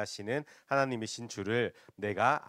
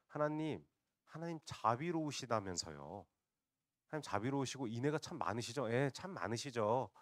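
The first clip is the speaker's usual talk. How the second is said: sarcastic praise; mock sarcasm; 2 semitones higher than usual. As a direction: lay on mild, mocking flattery. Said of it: "요나가 비꼬고 있는 겁니다".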